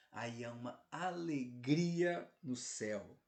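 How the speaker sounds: slow, measured build on "alegria"; drawn-out proclamation. Real, not acted. Preacher telling the flock of heaven's joy, slow proclamation. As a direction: stretch "alegria", then settle on "no céu".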